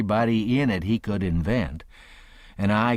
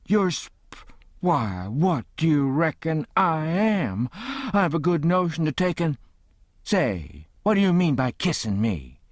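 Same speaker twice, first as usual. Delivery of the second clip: higher, stammering with outrage; sputtering indignant aunt; 7 semitones higher than usual. A narrator's reading. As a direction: trip over the words, too offended to finish. Aunt Sally scolding the kisser.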